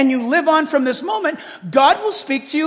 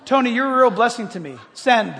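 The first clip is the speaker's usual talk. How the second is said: voice-command dictation. Shown as a demonstration. Texting Tony by voice command, dictation voice. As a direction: dictate it firmly to the phone. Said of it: "Verbally, and I sent it".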